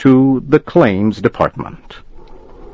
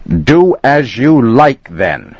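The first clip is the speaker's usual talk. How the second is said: raised, higher angry shout; 5 semitones higher, 3 dB louder, slower than usual. Acted. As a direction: bark it back at him in fury. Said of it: "shouted Flannery".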